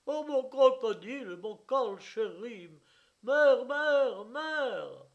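high, loud wail calling for his mother; anguished outcry. Acted. Crocodile owner wailing to his mother, high loud outcry. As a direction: cry out in panic over the lost pet. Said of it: "il s'écria".

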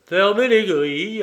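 mock the panic with cool agreement; cool, amused echo of the shout; calm. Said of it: "approuva Lupin calmement".

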